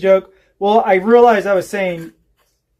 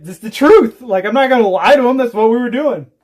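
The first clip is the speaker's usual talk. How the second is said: raised, louder imitation of self-justifying; mock defensive protest; 5 semitones higher, 4 dB louder than usual. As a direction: protest it as the indignant neighbor. Acting neighbor defending his honesty.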